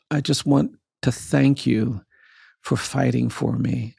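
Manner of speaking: slow, halting, earnest thanks; understated, effortful gratitude; struggling for words. Retold or imitated. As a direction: get it out slowly, pausing between phrases. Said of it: "trying to get his words out".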